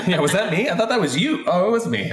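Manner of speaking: mock confusion. Guest playing himself not recalling his storylines, comically confused. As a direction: act out baffled doubt settling into sheepish acceptance.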